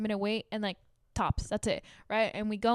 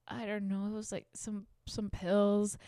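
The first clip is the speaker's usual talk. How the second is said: sheepish mumble; 6 dB quieter than usual. Retold or imitated. Daughter mumbling to angry mom.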